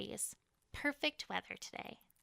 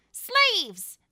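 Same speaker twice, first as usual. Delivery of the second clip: loud, high call over the crowd; commanding shout; 10 semitones higher, 14 dB louder than usual. Acted. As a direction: summon every slave to attention. Queen calls out to camp.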